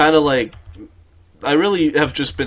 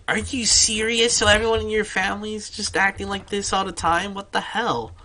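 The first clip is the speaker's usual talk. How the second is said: high-pitched mock outrage; incredulous put-on teacher rant; exasperated teacher; 9 semitones higher than usual. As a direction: imitate a teacher losing patience, pitched well up. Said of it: "she's like".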